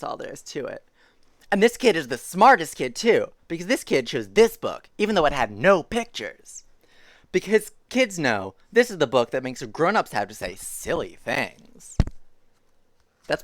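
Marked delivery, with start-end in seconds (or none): 1.5-12.0 emphatic storybook proclamation; animated story reading. A narrator's reading. Reader praises kid who chose this book, emphatic read-aloud. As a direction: declare it proudly to the listening child.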